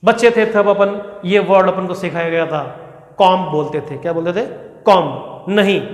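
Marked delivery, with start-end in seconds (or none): 3.2-3.4 कॉम with open o, komb without b; wrong pronunciation. Shown as a demonstration. Teacher recalling childhood learning, open-o कॉम. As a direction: say कॉम with an aw vowel. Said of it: "गलत है दोस्तों".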